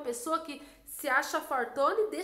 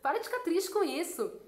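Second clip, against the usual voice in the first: higher and louder, playful scolding; a mock scolding friend, amused; teasing, laughing; 4 semitones higher, 4 dB louder than usual. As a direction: laugh her out of her sadness. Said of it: "como se ele estivesse rindo".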